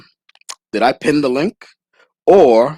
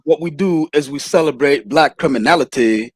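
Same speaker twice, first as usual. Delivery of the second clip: Anthony Brian Logan's way of talking. Retold or imitated. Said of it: "That's exactly how he talks".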